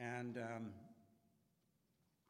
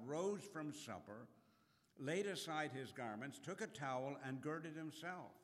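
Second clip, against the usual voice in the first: scripture reading. Acted. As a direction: read the gospel out to the congregation. Reading scripture aloud to congregation.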